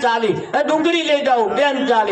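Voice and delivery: calling out onions to passing women; onion seller's shout. Retold or imitated. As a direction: cry it across the market like a street vendor. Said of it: "એમ".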